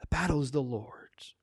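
hushed unvoiced repeat of the verse; whisper. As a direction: whisper it like a secret truth. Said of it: "Did you catch that?".

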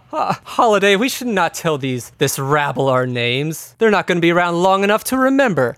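theatrical villain, laughing first, then scornful; lightly voiced haughty villain dismissing the rabble; villainous man. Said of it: "And he says".

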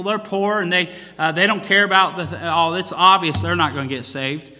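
mock reasoning of choosy church folk; mimicked judging churchgoers. Mimics church members judging who deserves visiting.

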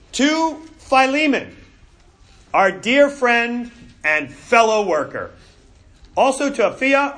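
measured, deliberate reading of an epistle; formal Bible reading to a congregation; scripture reading. Real, not acted. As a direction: read the letter aloud phrase by phrase, with pauses. Reads the letter aloud.

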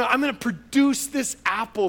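high, loud determined tree voice; a hammed-up straining tree vowing; talking tree. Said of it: "the tree says".

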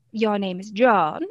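drawn-out, sing-songy character delivery; Lucy. Shown as a demonstration. Character playing a name game on stage, slow and sing-songy. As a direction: draw the name out slowly with a lilt. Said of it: "one of the games I play is".

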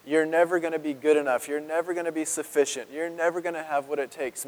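accusing inner voices. Retold or imitated. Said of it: "the voices that you hear are just".

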